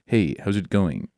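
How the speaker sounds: a try at a Midwest American greeting; northern Midwest accent. Shown as a demonstration. Australian guest trying a northern Midwest accent. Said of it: "Philly, like, northern, northern Midwest".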